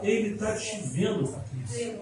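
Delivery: preacher's assurance, name by name; with authority. Retold or imitated. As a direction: declare it to each person with authority. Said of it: "alguém vira com autoridade e fala".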